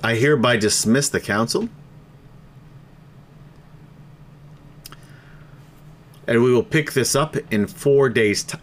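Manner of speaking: speaking through hiccups; a hiccup breaks the speech. Real, not acted. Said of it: "I got the fucking hiccups again".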